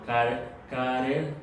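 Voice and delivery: "carer" drawn out slowly as a wrong example; stretched-out "car-, carer", shown as a mistake; cautionary mispronunciation. Shown as a demonstration. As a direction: demonstrate the clipped-short word "car-, carer", missing its ending. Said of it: "Cuidado de pronunciarlo".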